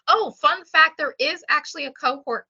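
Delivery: high, loud burst as a fact comes to mind; excitedly breaking in with trivia; sudden excitement. Real, not acted. Suddenly remembers a fun fact.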